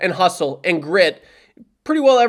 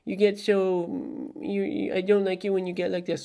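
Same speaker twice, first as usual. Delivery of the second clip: softer mock-whiny viewer, lightly voiced; mock viewer complaint; 9 dB quieter than usual. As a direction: imitate a fan gently scolding him, softly. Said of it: "some people are like".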